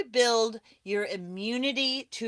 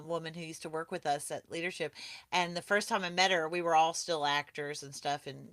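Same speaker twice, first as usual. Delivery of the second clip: usual speaking voice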